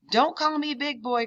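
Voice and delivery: high, thrown ventriloquist voice. Acted. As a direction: speak without moving the lips. Grandma's ventriloquist voice.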